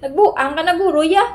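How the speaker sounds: rising furious taunt; very angry. Shown as a demonstration. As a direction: accuse them as if furious. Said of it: "Pag galit na galit".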